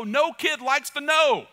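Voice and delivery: high, loud and slow; loud, slow preacher emphasis; emphatic preaching. Real, not acted. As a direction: hammer the point home.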